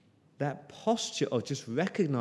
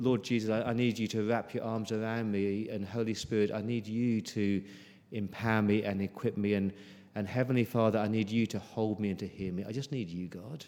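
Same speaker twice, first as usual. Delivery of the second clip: soft pleading prayer; 3 semitones lower, 4 dB quieter than usual. Pretend. Quoted prayer of need.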